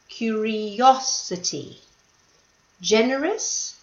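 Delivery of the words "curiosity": curiosity, slowed down with stress on cu-ri-OS-i-ty; stress on the third syllable. Shown as a demonstration. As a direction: stretch out curiosity and lean on OS.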